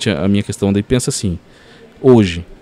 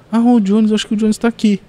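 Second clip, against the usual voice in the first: host calling out; 12 semitones higher than usual. Retold or imitated. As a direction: mimic the host calling him out from the stage. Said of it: "E ele me chamou".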